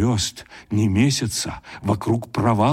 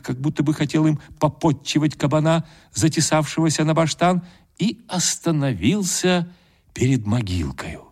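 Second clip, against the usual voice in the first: usual speaking voice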